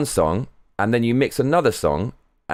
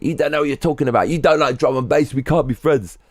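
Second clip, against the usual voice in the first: dismissive inner thought; 4 semitones higher than usual. Retold or imitated. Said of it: "roll my eyes and think".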